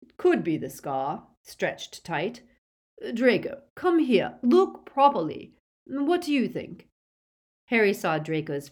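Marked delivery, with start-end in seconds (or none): 0.0-6.9 urgent father, building from hushed to high; eager, insistent urging; excited Lucius. A narrator's reading. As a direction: start controlled, then climb higher and louder. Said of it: "looked beside himself with excitement".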